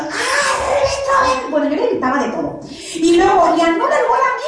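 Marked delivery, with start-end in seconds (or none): 0.0-1.5 high teasing taunt at the referee; mocking fans. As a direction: jeer in a high voice like rival fans. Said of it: "Y nos". (burla aguda de la afición contraria)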